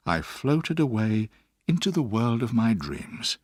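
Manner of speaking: usual speaking voice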